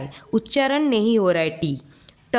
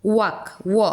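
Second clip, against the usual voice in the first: whispered sounding out; slower than usual. Shown as a demonstration. Teacher sounds out word.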